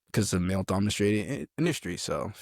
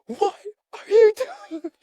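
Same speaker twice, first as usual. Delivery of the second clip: slow, high, loud sergeant bark; imitating a yelling drill sergeant; mock drill sergeant yell; 7 dB louder, slower than usual. Sergeant beelines at recruit.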